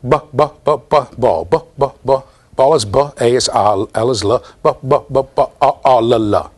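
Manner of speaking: choppy letter-by-letter sounding out; mock phonics drill, sounds chopped apart. Shown as a demonstration. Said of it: "That's what phonics is".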